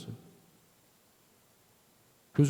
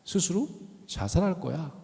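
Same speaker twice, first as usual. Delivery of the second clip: low despair; 2 semitones higher, 5 dB quieter than usual. Retold or imitated. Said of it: "톤에서 갑자기 훅 떨어지더니".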